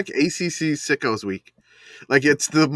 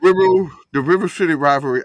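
put-on Yinzer accent; 5 semitones higher, 6 dB louder than usual. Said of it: "how you would say it in a Yinzer accent".

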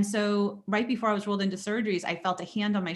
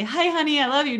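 high, louder sing-out to a spouse; mock loving greeting; 7 semitones higher, 5 dB louder than usual. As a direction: play an imagined sweet hello. Greeting she skipped, acted out.

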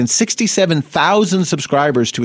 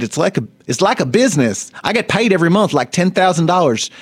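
lightly voiced quote; 5 semitones higher than usual. Quoting the porn star.

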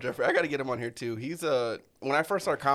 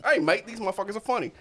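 higher-pitched mock Australian voice; attempted Australian accent; 8 semitones higher, 3 dB louder than usual. Podcaster imitating his listeners in Australia, attempted Australian accent. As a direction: put on a rough attempt at an Aussie accent. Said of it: "tried so hard to do an Australian accent".

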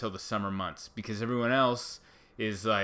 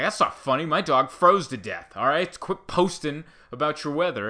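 a mock angry rant, somewhat louder; annoyed Chicagoan; 3 semitones higher, 5 dB louder than usual. Chicagoan scolds a sunny San Diego poster, mock angry. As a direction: play the freezing neighbor fed up with beach posts. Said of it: "someone in Chicago is like".

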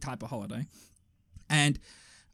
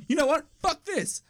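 high-pitched mock exasperation; fed-up outburst; 10 semitones higher than usual. Son fleeing falling maggots, high fed-up mock outburst. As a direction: act out giving up in a huff, pitched up.

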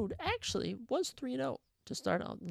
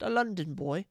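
put-on London accent; 5 dB louder than usual. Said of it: "How's my, how's my accent?".

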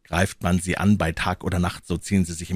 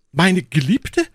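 mechanical repetition; 12 semitones higher, 6 dB louder, slower than usual. Acted. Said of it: "wiederholte er maschinenartig".

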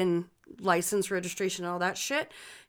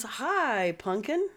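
higher, sweet hello to a little one; 3 semitones higher, much slower than usual. Real, not acted. Greets child who interrupts.

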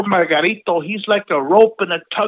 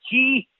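donkey bray; 5 semitones higher than usual. Acted. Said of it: "yelled right at her face".

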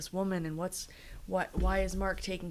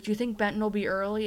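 eager question; 4 semitones higher, 4 dB louder, faster than usual. Retold or imitated. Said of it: "he's like".

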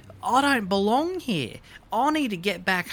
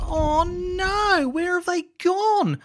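louder, higher frightened calls; panicked; 5 semitones higher, 3 dB louder than usual. Acted. Girl calling for her family in the storm, panicked. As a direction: call out for them in panic.

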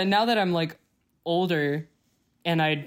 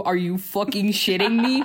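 mock outrage; 3 semitones higher than usual. Real, not acted. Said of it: "I'm so mad".

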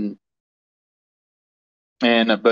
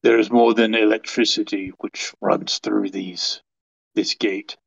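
lightly British, measured character voice; solemn warning with a touch of British; accidental British accent; 2 semitones lower than usual. Acted. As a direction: slip into a slight British accent. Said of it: "I went British there for a second".

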